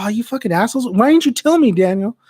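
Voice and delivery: a hammed-up indignant shout at his buddies; mock outraged yell. Friend yelling at his buddies for not warning him, mock outrage. Friend yells at being tricked.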